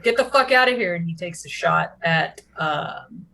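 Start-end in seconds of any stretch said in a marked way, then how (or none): 0.0-1.0 angry bandit. Acted. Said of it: "he's like".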